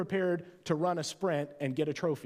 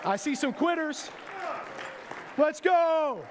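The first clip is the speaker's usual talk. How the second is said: aerobics instructor; 13 semitones higher than usual. Acted. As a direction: pump them up like a workout instructor.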